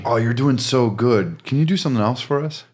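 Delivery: lightly acted over-sweet praise; mock encouragement. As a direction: feign delight while easing someone out. Acts out bosses promoting someone away.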